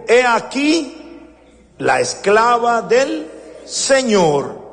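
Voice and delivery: high, slow and humble; humble, reverent words of Mary, slow; slow reverent quote. Retold or imitated. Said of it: "Qué dijo".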